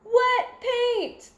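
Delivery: high, loud urgent warning. A narrator's reading. Painters warning firefighters about the wet floor. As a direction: warn them before it's too late. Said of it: "they both warn".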